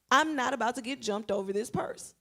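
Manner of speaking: acted-out defiant refusal; defiant quote. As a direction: push it out loud like a kid refusing. Quotes boy standing his ground.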